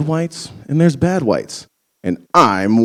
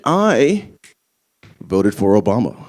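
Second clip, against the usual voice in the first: smug white voice; 4 semitones lower, slower than usual. Retold or imitated. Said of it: "the ultimate white guilt statement".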